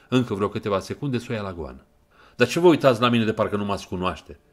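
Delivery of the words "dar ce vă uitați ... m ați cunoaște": loud, sharp, angry demand; furious snap. Acted. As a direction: snap at her to break the stare. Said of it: "se răsti el furios".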